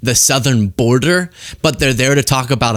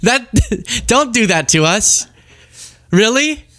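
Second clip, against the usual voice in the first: exasperated disbelief; 9 semitones higher, slower than usual. Real, not acted. Reacting in disbelief to clip.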